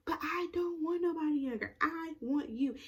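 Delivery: high, imploring imitation; retold insisting. He tells Michelle he wants only her, mock imploring. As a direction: imitate a lover insisting, pitched well up.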